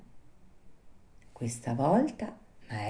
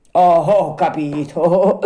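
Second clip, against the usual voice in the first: laughing; 2 semitones higher, 5 dB louder, slower than usual. A narrator's reading. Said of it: "disse allora ridendo".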